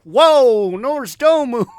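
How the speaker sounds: high loud laughing protest; laughing whoa. Retold or imitated. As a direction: laugh it off, startled. Laughing objection to threat.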